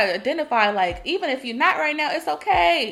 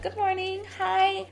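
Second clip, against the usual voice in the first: chirpy greeting; 9 semitones higher, 4 dB quieter, slower than usual. Retold or imitated. Greeting strangers cheerfully.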